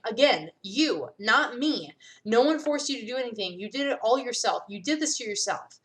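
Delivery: defiant accusation. Acted. Fina defying Kenny.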